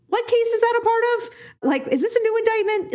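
high, baffled "What case is that a part of?"; confused disbelief. Retold or imitated. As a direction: play your own confusion, way up high. Retells her own confusion.

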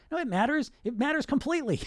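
firm coach voice. Acted. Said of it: "and this voice comes in".

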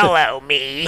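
slightly nasal singer impression; a rock singer. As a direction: mimic a nasal rocker. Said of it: "he talks a little nasally".

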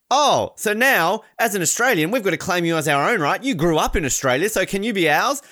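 Mel McLaughlin. Retold or imitated. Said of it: "awkward ending question where she's like".

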